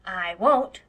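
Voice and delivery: put-on loud, blunt little-boy no; flat refusal. A narrator's reading. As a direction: refuse outright like a stubborn child. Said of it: "said Davy flatly".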